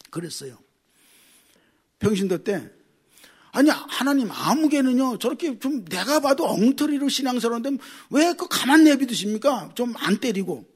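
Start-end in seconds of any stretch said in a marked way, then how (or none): 3.5-10.7 aggrieved whiny protest, a bit higher; complaining to God. Retold or imitated. A layman complaining to God that he is treated unfairly, in a lightly whiny protest. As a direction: retell the old grumbling prayer, half-mocking yourself. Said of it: "나 이랬어요".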